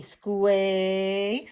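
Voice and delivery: "squay" with a long A vowel; long A sounded out. Shown as a demonstration. Teacher showing the long A sound, sounded out. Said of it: "it says A".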